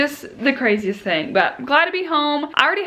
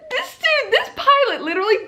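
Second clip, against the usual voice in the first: high, laughing through the words; can barely get it out for laughing; 14 semitones higher than usual. Real, not acted. Telling viewers about the speeding pilot, laughing.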